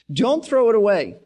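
ordinary talk, nothing marked

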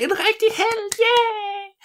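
the crowd cheers Mathilde in a very high whoop; cheering crowd. Acted.

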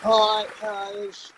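distant voice away from the phone; phone held away. Real, not acted. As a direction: speak from off the mic. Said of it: "now talk into the phone".

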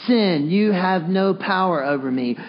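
slow, evenly paced declaration; slow group recitation. Shown as a demonstration. Preacher repeating it with the congregation, slow and deliberate. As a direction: draw it out so a crowd can join. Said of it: "One more time".

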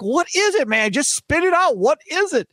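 urging him to just spit it out; impatient. Retold or imitated. Fan begging the radio host for the news, impatient and high. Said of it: "I'm like".

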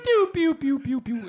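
high then fading mouth-made pew pew; imitated game-over jingle. Telling his podcast mate about the game-over tune, mock beeping. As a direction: sing the Tetris game-over beeps in a falling line. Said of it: "endgame music that just went".

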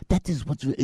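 mock Pakistani accent; bad Muslim accent. Host demonstrating his driver's voice, in a bad Pakistani accent. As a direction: fake a Pakistani accent, roughly. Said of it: "That's my really bad Muslim accent".

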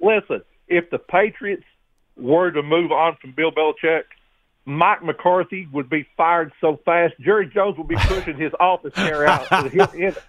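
talking while brushing teeth. Real, not acted. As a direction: mouth full of toothbrush. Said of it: "I'm brushing my teeth".

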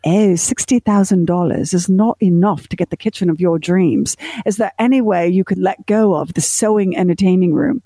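light mock British accent for the TV host; a hint of a prim British host, lightly imitated; the speaker's British voice. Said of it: "she says in her British voice".

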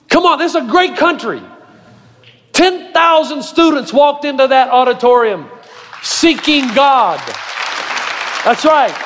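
impassioned preaching. Real, not acted. Pastor marvels at students seeking God, impassioned preaching. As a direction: drive each phrase home to the congregation.

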